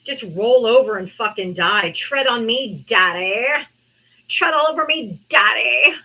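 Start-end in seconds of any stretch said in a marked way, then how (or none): 1.9-5.9 mock submissive man. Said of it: "That's what it sounds like".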